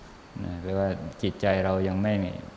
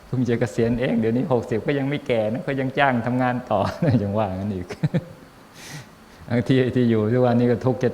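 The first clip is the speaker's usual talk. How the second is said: louder, amused and laughing; 3 semitones higher, 4 dB louder than usual. Real, not acted. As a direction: chuckle through a teasing joke. Monk jokes with laughter.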